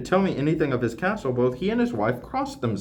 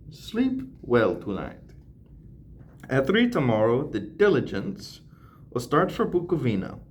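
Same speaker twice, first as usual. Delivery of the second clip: put-on lightly accented foreign count; courteous count with a mild foreign accent; Dracula's accent. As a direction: read the letter in a hint of an Eastern European accent. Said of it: "I gave him an accent".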